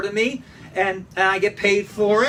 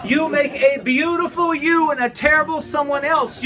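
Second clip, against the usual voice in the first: raised preaching voice, higher; higher, ringing proclamation; 5 semitones higher than usual. Shown as a demonstration. Pastor to congregation, proclaiming it higher. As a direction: lift it up and proclaim it.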